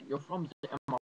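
loud, high, exasperated doctor voice; hammed-up irate character rant; bad Nazi doctor impression. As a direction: rant like a fed-up movie doctor. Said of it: "That's probably a terrible impression".

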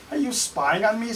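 high parrot question. Acted. Parrot accuses the pirate in the bushes, high. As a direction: squawk it up high. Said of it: "says the parrot".

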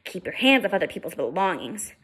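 menacing. Acted. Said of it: "he said in a menacing manner".

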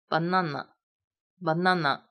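"banana" read very slowly, closed a; slow model reading. Shown as a demonstration. Teacher modeling "banana" slowly for students. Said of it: "第四个".

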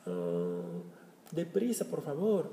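high, eager hurry-up to a friend; urging a friend. Retold or imitated. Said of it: "you can tell".

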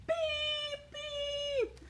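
high robot beeping; robot beeps. Acted. Robots calling from their beds, high beeping. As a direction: squeak it like a tiny robot.

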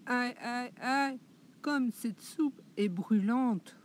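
high yelps of "aïe" then a slow burned complaint; pained little girl. Acted. Boucle d'Or se brûle avec la soupe, petits cris aigus. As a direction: squeal at the hot soup. Goldilocks burns her mouth.

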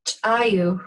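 "chayu" with a popped CH, then a tiny break; "chayu" opened by an ejective ch. Shown as a demonstration. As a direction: pop the first sound of "chayu". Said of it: "that's ejective".

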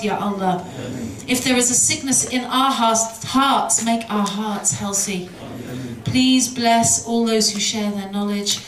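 earnest, steady supplication; closing prayer. Acted. Speaker leads the audience in prayer for Syria, earnest and steady. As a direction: pray over the gathering, softening at the end.

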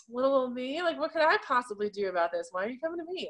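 badly faked Southern belle voice. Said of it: "kind of like a Southern belle".

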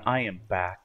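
rough just-woke-up voice; groggy, gravelly morning voice. Real, not acted. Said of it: "hear my morning voice, which is not that pleasant".

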